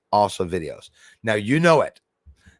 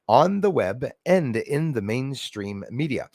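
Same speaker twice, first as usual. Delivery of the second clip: stiff reading aloud. Acted. Reading article text aloud.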